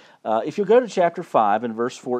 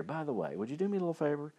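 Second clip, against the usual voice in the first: confidential aside; 8 dB quieter, faster than usual. Acted. Haman asking the king a little favor, mock whisper. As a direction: drop the volume, slip in a casual favor. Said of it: "I just have to whisper in his ear".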